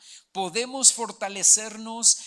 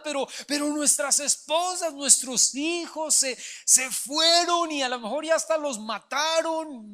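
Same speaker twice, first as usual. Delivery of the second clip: high, raised voice, crying out over lost families; anguished lament; 5 semitones higher than usual. Acted. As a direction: wail it like grieving soldiers. Weeping men's lament continues.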